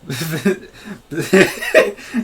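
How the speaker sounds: laughing lightly through a mock show intro; half-serious character impression, breaking into giggles; host a silly eating show, trying not to laugh; Kim. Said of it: "do a Kim impression".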